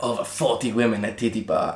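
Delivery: lightly imitated titty-bar tout; retold sales patter, lightly put on; a hint of the tout. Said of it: "then he was like".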